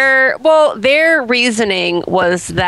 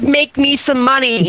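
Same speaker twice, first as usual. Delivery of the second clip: aggressive boss; 4 semitones higher than usual. Acted. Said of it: "like, aggressive".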